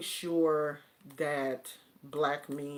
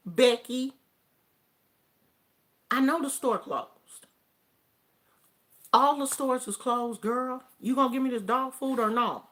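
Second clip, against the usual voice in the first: raised, louder, acted-out impatience; impatient confrontation; 7 semitones higher, 6 dB louder than usual. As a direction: confront the clerk, fed up.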